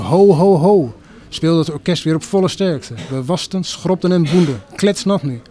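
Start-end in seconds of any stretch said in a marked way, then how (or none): 0.0-0.9 rousing narrated shout; calling at full voice. A narrator's reading. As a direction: belt out the ho-ho-ho. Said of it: "Werd er weer luidkeels geroepen".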